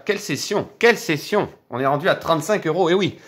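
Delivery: on top of the world; thrilled. Real, not acted. Climax of the scratch session. (ravi, beaucoup plus aigu)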